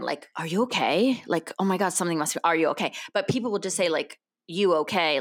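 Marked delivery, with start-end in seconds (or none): 0.4-1.2 worried check-in with a rising question; mildly alarmed, imitating concern. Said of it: "they were, like, concerned". 1.6-2.9 mildly worried imitation; a touch of mock alarm; concerned. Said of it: "they were, like, concerned". 4.5-5.2 offhand check-in with a falling end; everyday, unworried greeting; casual greeting. Retold or imitated. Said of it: "How are you?".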